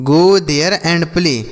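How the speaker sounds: very slow, joined-up model sentence; slow whole sentence. Shown as a demonstration. Teacher modelling the full sentence very slowly for children. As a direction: drag the whole line out evenly for learners. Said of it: "जैसे बोल सकते हैं".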